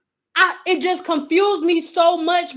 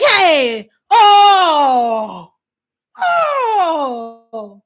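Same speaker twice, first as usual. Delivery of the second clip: mock wail; 4 dB louder, much slower than usual. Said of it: "And she was like".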